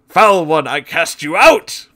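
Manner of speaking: loud, high exorcism command; commanding exorcist. Acted. Exorcist to the demon, commanding loud and high. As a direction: cast the demon out with full force.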